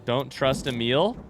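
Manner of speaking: slow, with a questioning rise at the end; slow puzzled reading. Real, not acted. Player reading a message in the game, slow and puzzled. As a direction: read it out slowly as a question. Reads out message, then mocks it.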